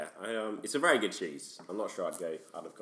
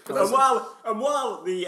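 laughing; 10 semitones higher, 8 dB louder than usual. Real, not acted. Laughing while asking.

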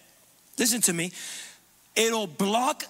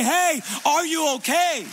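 higher, louder, slow call of concern; caring check-in; 6 semitones higher, 4 dB louder, slower than usual. Acted. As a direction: reach out to a hurting friend.

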